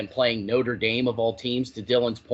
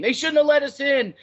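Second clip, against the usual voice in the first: high, louder smug fan gloat; mocking rival fan; 13 semitones higher, 5 dB louder than usual. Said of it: "talking about the Ohio State-Texas game".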